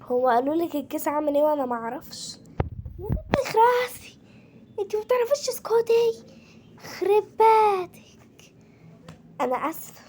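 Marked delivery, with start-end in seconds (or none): 3.0-8.5 scolding. Real, not acted. Mother scolding her daughter to shut up, high and sharp. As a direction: tell her to shut up, fed up.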